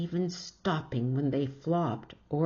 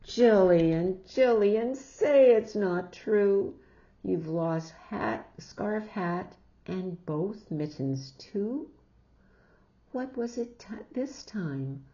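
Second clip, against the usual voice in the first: scolding mother; 4 semitones higher, 5 dB louder than usual. Acted.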